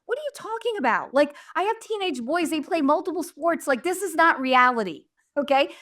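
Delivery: high, fast panicked protest; freaking out. Retold or imitated. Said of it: "So I'm freaking out".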